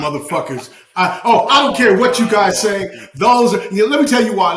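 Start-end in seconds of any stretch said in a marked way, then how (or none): 1.2-4.5 heated, louder insistence; passionate, emphatic protest; passionate outburst. Real, not acted. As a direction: dig in and insist, worked up. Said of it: "you know how passionate I am".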